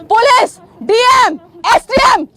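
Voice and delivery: high, punchy naming of each title; indignant roll call. Real, not acted. Reporter calls out silent officials, indignant roll call.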